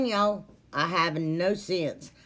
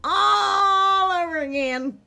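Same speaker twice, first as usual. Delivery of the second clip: laughing; 11 semitones higher, 5 dB louder than usual. Real, not acted. Laughing at repeated clip.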